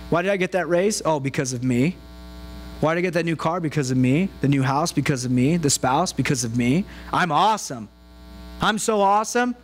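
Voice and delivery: low, smug self-praise; lightly voiced smug boaster; smug bragging. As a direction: brag that it's all you. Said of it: "it's all about me".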